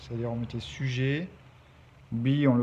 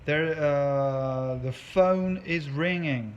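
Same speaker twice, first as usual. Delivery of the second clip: acted example apology; 2 semitones higher, 3 dB louder, much slower than usual. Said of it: "Mais là, je peux vous dire".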